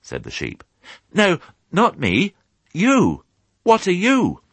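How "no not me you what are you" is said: high, loud, drawn-out piglet voice; insistent piglet. Acted. Piglet putting the muddled sheep right, high and insistent. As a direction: spell it out as a little pig.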